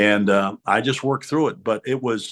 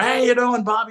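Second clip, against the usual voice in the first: hearty greeting; 13 semitones higher than usual. Retold or imitated. Madden greeting rookie exuberantly.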